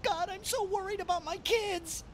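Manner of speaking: anxious rambling about family; fretful doctor. Acted. Doctor worries aloud about his family. Jupy frets.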